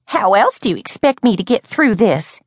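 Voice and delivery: high-pitched, earnest protest; serious, wailing demand. A narrator's reading. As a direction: plead your case in a high voice, in earnest. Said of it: "She sounded serious".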